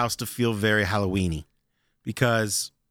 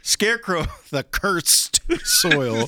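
high, very slow dramatic read; 4 semitones higher, much slower than usual. Acted. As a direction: read it like Shakespeare. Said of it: "I was doing Shakespeare".

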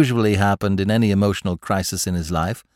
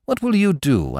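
higher-pitched, mildly anxious question; alarmed father; 7 semitones higher than usual. Retold or imitated. Smith quotes his father fearing for him, mildly alarmed. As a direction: ask with a touch of alarm. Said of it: "alarmed for my safety".

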